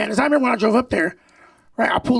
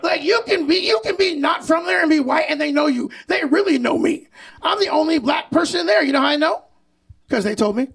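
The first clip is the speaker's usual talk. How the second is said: raised mock-indignant reply; heated retort; 3 semitones higher than usual. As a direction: fire it back at him, worked up. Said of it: "I said".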